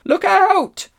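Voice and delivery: very high, loud shout; called warning. A narrator's reading. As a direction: yell a sudden warning of danger. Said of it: "called several voices".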